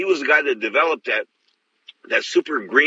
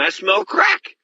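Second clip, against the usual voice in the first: slow, much higher, drawn out on crack; disbelieving realization; much slower than usual. Retold or imitated. Cop smells crack in a Chinese hotel, slow high disbelief. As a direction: let it dawn on you, stretching the word.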